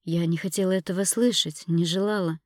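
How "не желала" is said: ordinary delivery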